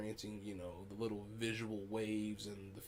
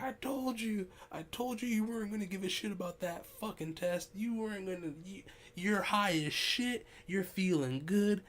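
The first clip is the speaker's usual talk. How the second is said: high-pitched, vindicated imitation of a friend; mock excited crowing; 10 semitones higher, 5 dB louder than usual. Friend cheering on his stoned buddy, high excited crowing. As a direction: crow it in a high, pushed voice. Friend gloats after choking on food.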